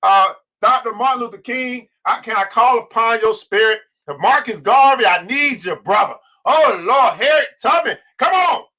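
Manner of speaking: rising, prayerful invocation; summoning the ancestors' spirits; calling on ancestors. Real, not acted. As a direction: call each name like a prayer. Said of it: "pay homage to my ancestors".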